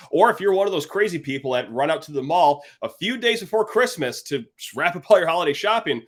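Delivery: upbeat, punchy ad-read voice, words stretched and sold; sponsor ad read. Acted. Podcast host selling the sponsor to listeners, in an eager ad read. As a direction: pitch the protein bar like a radio spot.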